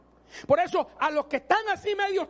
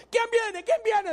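blind man calling; 6 semitones higher, slower than usual. Retold or imitated. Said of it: "decía el cieguito".

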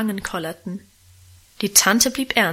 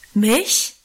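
a startled little "Mich?", understated; mild shocked outcry; surprised cry. Acted. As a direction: gasp it out in astonishment, lightly. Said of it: "schrie Guste auf".

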